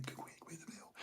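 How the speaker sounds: silent, unvoiced whisper; just mouth the words. Miming to the waiter across the restaurant, whisper. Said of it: "you mouth it and you whisper it".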